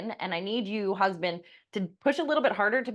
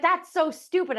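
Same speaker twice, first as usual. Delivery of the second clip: dismissive; 10 semitones higher, 4 dB louder than usual. Retold or imitated. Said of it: "she's like".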